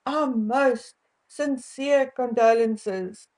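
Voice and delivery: slow, overly formal condolences; mock formal phrasing. Shown as a demonstration. Vlogger mocking British royal condolence wording, slow and stiff. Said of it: "We don't say".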